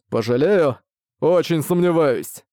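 slow, mocking disbelief; mocking doubt; scornful. A narrator's reading. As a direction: sneer at the threat. Ark mocks the bat.

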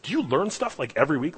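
high-pitched, earnest question; wondering, free of sarcasm; sincere curiosity. Retold or imitated. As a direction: imitate someone honestly wanting to know. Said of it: "it wasn't sarcasm".

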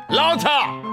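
high ringing call over the music; exultant high shout; shouted command. Acted. Orders the music louder.

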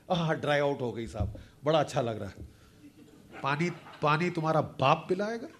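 smug mock voice, then a laugh. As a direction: sneer at them in a put-on voice. Mimicking complacent opponents.

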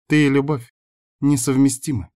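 mock his confession with a smirk; snide smile. A narrator's reading. Girl mocking his declaration of love, snide and smiling. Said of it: "ехидно улыбаясь".

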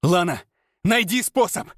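calling out over the fire; urgent call over fire noise; shouted over the roar. A narrator's reading. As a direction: shout it across the flames. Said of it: "крикнул через грохот пламени".

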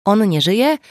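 exclaimed. A narrator's reading. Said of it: "wykrzyknęła".

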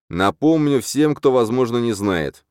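slow, loud announcement. A narrator's reading. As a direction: address the whole hall, loud and slow. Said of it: "громко начинаю я".

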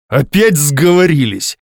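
slow, loud cry of despair; husband crying out in despair at the women; desperate exclamation. Acted. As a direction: cry out, cornered. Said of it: "в отчаянии воскликнул Матвей".

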